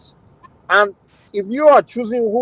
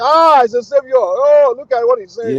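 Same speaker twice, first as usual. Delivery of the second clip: mock admiring; 5 semitones higher, 4 dB louder, slower than usual. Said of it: "They say".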